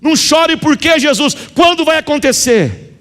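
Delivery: high, pleading question to Jesus; pleading widow. Acted. Grieving widow questions Jesus, high and pleading. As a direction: beg him for an answer, voice lifted high.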